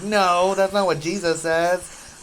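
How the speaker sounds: a mock objection thrown back at a friend; indignant retort. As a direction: push back hard, hammed-up.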